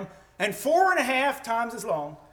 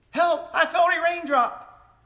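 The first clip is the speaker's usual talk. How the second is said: higher-pitched mock alarm; sarcastic; 5 semitones higher than usual. Scoffer pretending to fear a raindrop, sarcastic. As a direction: jeer with a fake cry for help. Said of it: "Can you hear the sarcasm?".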